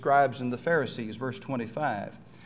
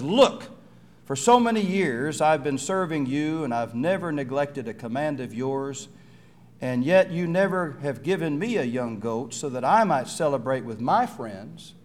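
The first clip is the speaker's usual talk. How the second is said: resentful son; 3 dB louder than usual. Acted. Older son complaining to pleading father, loud and resentful. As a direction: let the grievance pour out.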